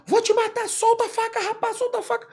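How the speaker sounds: high, forceful shouted threat; threatening command. Retold or imitated. Cop threatening the kid with the knife, high forceful yell. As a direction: yell the threat to make him drop it. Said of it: "Eu verbalizando".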